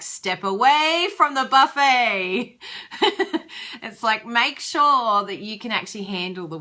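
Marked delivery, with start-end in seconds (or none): 0.0-2.6 slow, loud, higher mock command; stern mock warning. Quoting Marie Forleo's stern warning, slow and loud. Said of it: "And she was like". 2.6-3.8 high breathy laugh. Real, not acted. Laughing after quoting the buffet line, high and airy. Laughing at her own quote.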